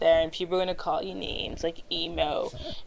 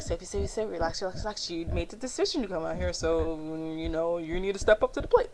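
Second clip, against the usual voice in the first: self-soothing. Retold or imitated. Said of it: "trying to calm myself down".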